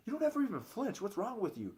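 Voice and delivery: lightly imitated baffled girls. Girls puzzled he never flinches, high-pitched mock bafflement. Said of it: "The girls always used to do this to me".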